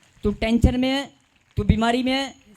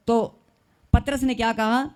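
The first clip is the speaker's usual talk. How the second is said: normal talking voice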